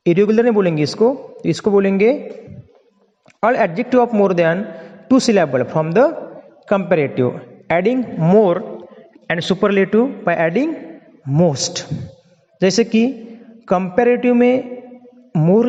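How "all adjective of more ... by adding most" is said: very slow, word by word, dictating to the class; slow dictation. Shown as a demonstration. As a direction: spell it out slowly for students to write down. (धीमे-धीमे बोलकर लिखवाना)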